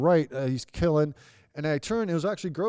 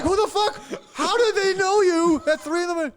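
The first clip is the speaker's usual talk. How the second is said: laughing disbelief; 14 semitones higher, 5 dB louder than usual. Retold or imitated. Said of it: "we're like".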